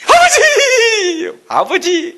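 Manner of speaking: high, very slow drawn-out mock wail with laughter; hammed-up chick calling father, laughing; panicked eaglet. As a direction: howl for father as you fall. Third eaglet screams for father.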